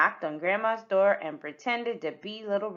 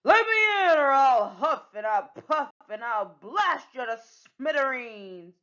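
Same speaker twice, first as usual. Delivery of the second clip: mock wolf menace, only a little louder; a pirate trying to sound like the big bad wolf; big bad wolf threat; 3 semitones higher, 5 dB louder than usual. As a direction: huff and puff like a hammed-up wolf. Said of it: "How's this?".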